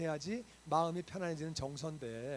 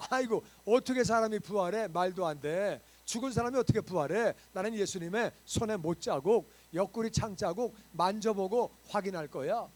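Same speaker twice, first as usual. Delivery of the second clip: doubting Thomas; 9 dB louder than usual. Acted.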